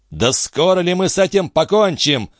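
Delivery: a son growling at his father, sick of the delay; growled impatience. Acted. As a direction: growl it out, fed up with the quarrel. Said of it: "прорычал Дон Фернандо".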